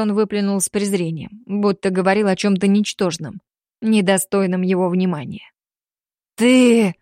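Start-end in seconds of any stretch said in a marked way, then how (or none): 6.4-6.9 voice breaking. Acted. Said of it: "Голос Дамира сорвался".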